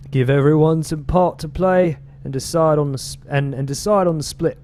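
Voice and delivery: put-on British accent drifting but kept going. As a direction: gang narrator in a slipping British accent. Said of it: "I'm not even sure if this is a British accent anymore".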